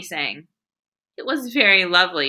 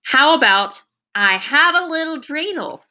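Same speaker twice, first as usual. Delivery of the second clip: put-on higher hopeful little boy; eager boy voice; 6 semitones higher than usual. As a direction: pitch it brightly like an eager kid. Sheldon voiced in story.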